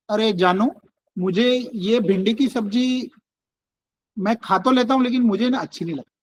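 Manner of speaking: gentle, loving complaint to wife; lovingly. Shown as a demonstration. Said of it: "प्यार से बोला". (प्यार से, नरमी से)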